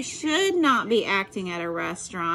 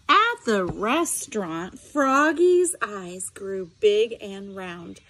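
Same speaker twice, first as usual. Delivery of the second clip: lively read-aloud voice with sound effects; story narration; slower than usual. A narrator's reading. Teacher reading a picture book to her students, animated storytelling.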